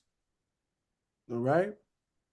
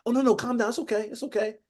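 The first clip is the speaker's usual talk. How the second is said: higher, softening mock reassurance; mock comforting; 4 semitones higher, 4 dB quieter, faster than usual. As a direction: soothe as if hushing someone frightened, put on. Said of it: "How you gonna be comforting".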